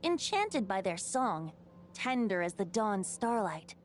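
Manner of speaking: measured, lyrical tale-telling; bardic storytelling. Acted. Bard tells the old wolf's story to the travelers, lyrical. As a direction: recount a legend like a wandering minstrel.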